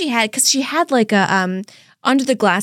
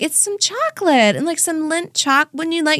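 higher, bright sales pitch; customer service voice; 5 semitones higher than usual. Retold or imitated. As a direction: sell it sweetly to a customer. Her own sample-girl voice.

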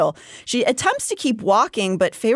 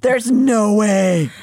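sarcastic; 5 dB louder, much slower than usual. Real, not acted. Sarcastic disbelief.

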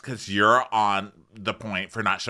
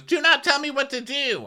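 high mock defiance. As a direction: refuse her orders sharply. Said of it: "she goes".

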